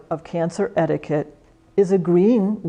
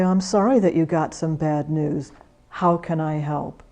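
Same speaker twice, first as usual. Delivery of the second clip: gentle empathy; 2 semitones lower than usual. Shown as a demonstration. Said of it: "You agree with them and say".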